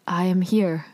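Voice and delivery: stiffly announced, imitating awkwardness; awkward. Sunwoo interrupting Aro and Suho, mildly awkward. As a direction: play someone awkwardly making their presence known. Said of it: "very awkward".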